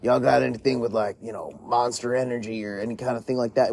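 lightly voiced Southern customer, easygoing; Southern accent. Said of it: "which is why I'm doing that voice".

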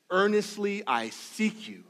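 slow, earnest psalm reading, each word weighted; a touch of longing; slow reverent reading. Acted. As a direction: read the psalm slowly, longing in every word. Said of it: "he says".

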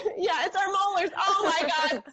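giggling through the words; laughing. Real, not acted. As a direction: laugh while you talk. Laughing at molars joke.

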